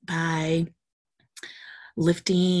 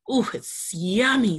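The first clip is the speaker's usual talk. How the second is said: savoring yummy; 4 semitones higher, 4 dB louder than usual. Acted. Josh slurping soup.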